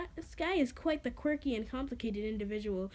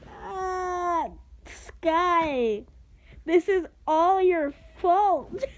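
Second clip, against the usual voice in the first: loud slow anguished accusation; dramatic accusation; 6 semitones higher, 8 dB louder, much slower than usual. Acted. Gray crying out at Sky, loudly dramatic. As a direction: blame her with full drama.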